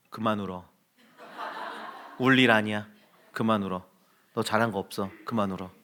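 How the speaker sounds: low, soft, firm scolding; stern father. Retold or imitated. Father telling his crying son to stop, stern and soft. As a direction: clamp down on the crying, quietly. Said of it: "뭐 이래-, 이랬어요".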